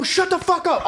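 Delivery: high-pitched retold yell; exasperated mock yell; yelling back. Retelling himself answering friend's dare, yelling back. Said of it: "yelling at me".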